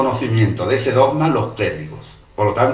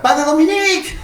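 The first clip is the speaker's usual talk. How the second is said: high, loud shout across the church; girl shouting for the priest from the church door, loud high call; 6 dB louder than usual. Retold or imitated. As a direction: yell for the priest from the doorway. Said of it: "pegando voces desde la puerta".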